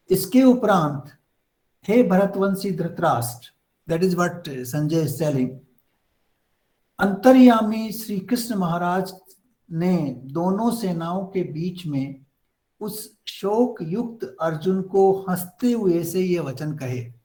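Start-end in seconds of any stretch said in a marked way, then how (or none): 0.1-3.5 fast, even Hindi verse recitation; scripture reading. Acted. Teacher reciting Sanjay's verse to the class, fast reading. 7.0-17.1 fast, even Hindi verse recitation; scripture reading. Acted. Teacher reciting Sanjay's verse to the class, fast reading.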